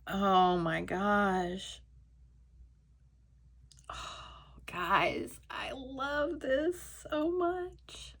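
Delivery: slow, breathless whisper of awe; teary whisper. Real, not acted. Opening the pin for viewers, whispering in teary awe. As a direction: barely get the words out, moved.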